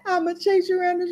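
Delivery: scolding through a chuckle; lightly laughing mock warning; imitated laughing threat. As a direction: play a grandmother cracking up while she threatens. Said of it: "she would laugh and she'd be like".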